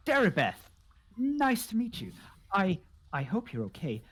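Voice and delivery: halting, tentative introduction with gasps and sighs; lightly voiced odd recluse; gentle eccentric host. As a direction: introduce yourself breathily, then sympathise.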